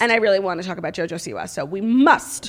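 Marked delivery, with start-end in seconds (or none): 1.5-2.5 mock solemn.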